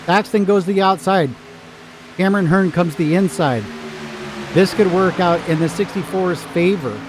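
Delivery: excited high play-by-play; race caller. Acted. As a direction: call the last laps like a race announcer. Live race finish commentary.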